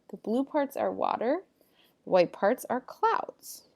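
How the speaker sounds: lively, emphatic textbook reading; animated classroom read-aloud with lifted key words; reading aloud to pupils. Acted. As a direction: read the facts out clearly to a class. Reads textbook passage aloud to pupils.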